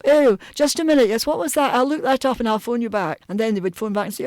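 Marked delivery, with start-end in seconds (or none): 0.0-3.2 put-out Edinburgh lawyer, high-pitched; Edinburgh lawyer's higher voice, playing for time. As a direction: stall them like a resistant solicitor. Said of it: "If you phoned an Edinburgh lawyer".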